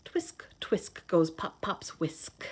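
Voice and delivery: slow, soft storybook whisper. Acted. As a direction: hush it out slowly for the kids.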